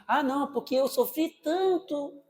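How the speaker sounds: mock parent. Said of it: "Tá vendo as lentes do passado?".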